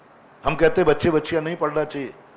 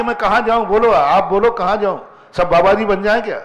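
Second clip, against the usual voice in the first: higher, louder mock child's plea; raised, imploring imitation of children; pleading children; 4 semitones higher, 3 dB louder than usual. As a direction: play the helpless kids asking where to go. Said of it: "हमारे बच्चों ने कहा कि".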